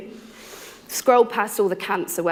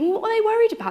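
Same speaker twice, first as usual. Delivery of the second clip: puzzled surprise; 13 semitones higher, much faster than usual. Retold or imitated. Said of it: "But I'm thinking".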